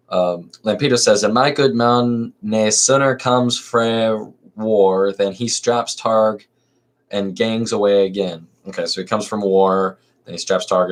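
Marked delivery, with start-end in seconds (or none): 1.2-8.5 put-on Scots accent. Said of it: "do that for Lampeto every time".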